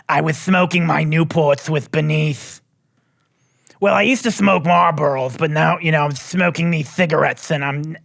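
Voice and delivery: a light impression of a chatty salon smoker lady. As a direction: gossip like a chain-smoking hairdresser's regular, lightly. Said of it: "that's what she sounds like".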